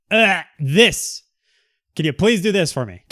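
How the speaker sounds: exasperated plea. Retold or imitated. Pushy person pleading after being pushed too far, exasperated. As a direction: sigh it out, fed up and begging.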